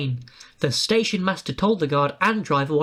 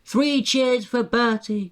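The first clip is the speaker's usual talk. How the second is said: calling out; 6 semitones higher, slower than usual. A narrator's reading. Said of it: "called the passengers".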